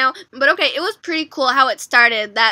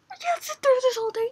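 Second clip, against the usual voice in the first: fast, breathless whisper; 10 semitones higher, 6 dB quieter, faster than usual. Real, not acted. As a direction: whisper it like you can't bear to watch. Overwhelmed fan whispers fast.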